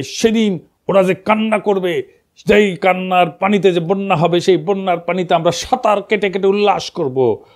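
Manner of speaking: mocking a politician's grand campaign speech; mock rally speech. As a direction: lightly imitate a podium orator rousing the crowd. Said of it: "তো পাপিয়া বক্তৃতা দিতেছে".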